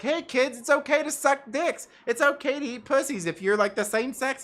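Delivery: mock announcement. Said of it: "just putting it out there like".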